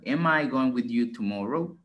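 "Am I going with you tomorrow?" with a rise at the end; question intonation. Shown as a demonstration. Teacher models the question tune for a student. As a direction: lift the end like a real question. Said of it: "Y darle la entonación como tipo pregunta".

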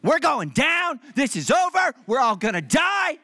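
high, loud hammed-up panic shout; mock panic. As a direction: wail like the plane is crashing. You don't want me in an emergency.

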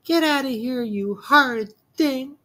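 put-on high, loud, furious old woman; furious granny. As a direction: chase him off in outrage. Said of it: "she cried".

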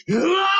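sudden high yell; a comic yelp of shock; mock yell. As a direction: blurt out a wild high "Ah!". Man alone yelling in room.

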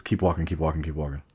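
low, soft mock street hustler; hushed imitation of a shady stranger; low furtive voice. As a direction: mutter it covertly to the group. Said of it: "he's talking to all of us, kinda like".

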